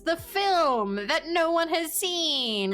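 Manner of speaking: lightly voiced high nasal snob; slow, nasal and haughty. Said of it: "a very high up kind of nasal voice".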